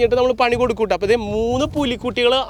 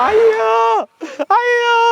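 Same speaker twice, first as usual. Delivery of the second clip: mock dismay; 13 semitones higher, 4 dB louder, much slower than usual. Host reacts to contestant quitting.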